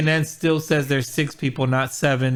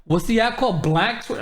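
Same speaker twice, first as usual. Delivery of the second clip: imitating a clueless question, pitched up; mock puzzled, asking in a higher voice; puzzled questioner; 5 semitones higher than usual. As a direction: play someone who has no idea. Retold clueless question about an app.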